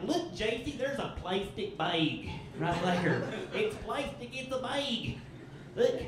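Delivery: a hint of an East Tennessee mom's drawn-out A; light East Tennessee mom voice; southern mom accent. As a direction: imitate mom's southern accent, stretching bag. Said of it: "that kind of southern accent".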